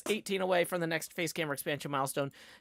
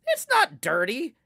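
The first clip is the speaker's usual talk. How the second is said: slow, higher, louder insistence; parent reassuring; 9 semitones higher, 9 dB louder than usual. Retold or imitated. Parent insisting apartment is fine, mock-reassuring. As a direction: insist kindly. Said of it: "they're like".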